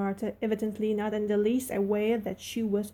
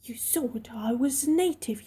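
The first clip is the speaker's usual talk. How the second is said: put-on furious girl breathing out her insult; whispered rage; 3 semitones higher than usual. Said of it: "rage and humiliation".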